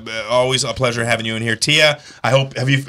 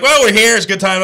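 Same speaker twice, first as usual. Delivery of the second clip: mock Marty; 7 semitones higher, 5 dB louder than usual. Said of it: "he was like".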